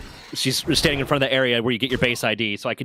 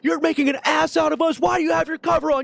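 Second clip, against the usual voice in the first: angry dressing-down. Retold or imitated. Major chews out officer.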